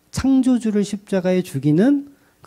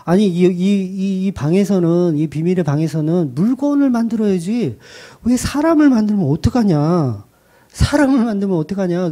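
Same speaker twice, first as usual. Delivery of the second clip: shocked husband; 3 semitones higher than usual. Retold or imitated. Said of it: "남편이 와서 깜짝 놀라는 거예요".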